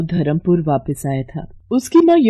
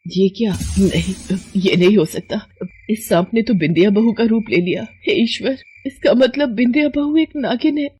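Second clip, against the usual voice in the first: aghast, rising in pitch toward the end; horrified realisation; 3 semitones higher than usual. Acted. Mother discovering her daughter-in-law is a serpent, horrified. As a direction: build from shock to high-pitched alarm.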